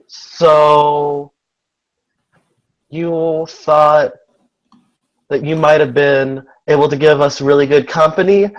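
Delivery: high, bright character voice, drawn out; Lucy's high girlish voice. Acted. Lucy voiced by player.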